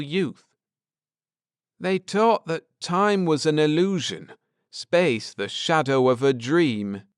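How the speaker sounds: earnest scholar laying out history; Ned, earnest. Acted. Ned explaining the Druids to his wife, lightly voiced earnest man.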